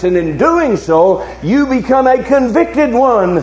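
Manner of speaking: impassioned sermon challenge to the congregation; forceful preaching. Real, not acted. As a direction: preach it out with driving, sustained emphasis.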